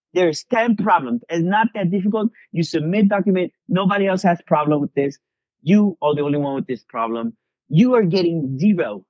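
high-pitched, stern mock Russian professor; Russian professor interrogation. Mock Russian professor refusing a student credit, stern and high. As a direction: imitate an interrogator laying down the rules. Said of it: "the Russian spy in him came out".

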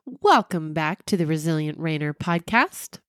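blocked nose, congested and stuffy; stuffy sick voice. Real, not acted. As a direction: talk through a stuffy nose. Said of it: "it's my sick voice".

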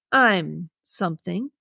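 a man at the door, fed up, answering the frightened woman inside; exasperated. Acted. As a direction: let it drag out, fed up with her questions. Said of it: "he replies with exasperation".

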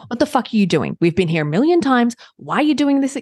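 mock exasperated snapping at himself; impatient scold, pitch rising at the end; mild mock anger; harsh self-scolding. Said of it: "It wasn't".

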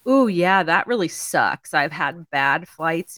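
slow, sincere commiseration, imitated; genuine sympathy. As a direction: draw it out like an understanding stranger. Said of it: "the way he did was very genuine".

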